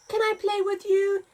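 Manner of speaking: eager little giraffe. Acted. Giraffe asking the rhinos to play, eager. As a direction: ask brightly, full of hope. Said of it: "he asked the rhinos".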